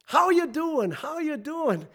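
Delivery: high-pitched, chirpy mock greeting; imitated greeter. Well-wishers to bereaved father in greeting line, imitated greeting. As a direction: toss it out like a routine greeting.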